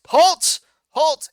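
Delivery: loud, high barked order; commanding shout. Acted. Sunny ordering the ferrets to stop, loud and high. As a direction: stop them dead with a yell. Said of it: "He says".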